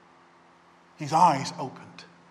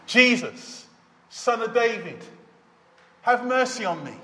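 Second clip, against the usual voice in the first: shouted plea; 4 semitones higher, 4 dB louder than usual. Acted. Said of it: "he shouted all the more louder".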